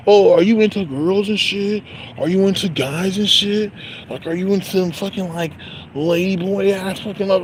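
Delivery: high, prying mock question; mocking nosy question. Mocking a coworker prying about sexuality, high and needling. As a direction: needle her like a nosy gossip. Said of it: "seem like".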